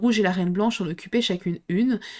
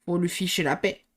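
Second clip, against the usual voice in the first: panting; 2 semitones lower than usual. Acted. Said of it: "dit-elle tout haletante".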